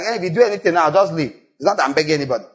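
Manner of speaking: dismissive, rushed brush-off; mock attitude. Prodigal brushing off the father, mock attitude. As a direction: toss it off like you owe nobody. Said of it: "Almost like an attitude like".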